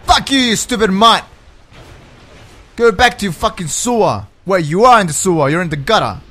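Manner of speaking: loud, heated insults at the enemy; mad. Real, not acted. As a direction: hurl abuse in real anger. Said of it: "I'm so mad right now".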